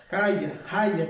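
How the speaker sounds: "Haya" dicho como palabra hebrea; pronunciación hebrea. Shown as a demonstration. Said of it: "se pronuncia como". ("Haya" con pronunciación hebrea tentativa)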